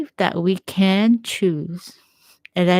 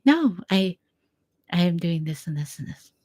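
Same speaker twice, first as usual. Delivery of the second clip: gentle refusal. Shown as a demonstration. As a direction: turn them down gently, with love. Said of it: "You become more forgiving and loving".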